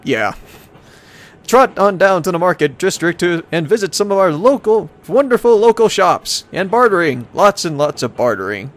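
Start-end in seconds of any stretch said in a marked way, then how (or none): 1.5-8.7 upbeat brochure voice, pitched up in places; hammy travel-brochure announcer; tourism ad read. Acted. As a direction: sell the town like a promo. Reads travel brochure aloud.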